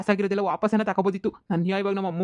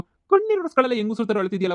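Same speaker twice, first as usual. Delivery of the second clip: scolding yell; 5 semitones higher than usual. Acted. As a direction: snap at him to stop crying. Scolding crying friend.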